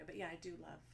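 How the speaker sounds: fast soft whisper. Real, not acted. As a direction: whisper it quickly. Whispered aside.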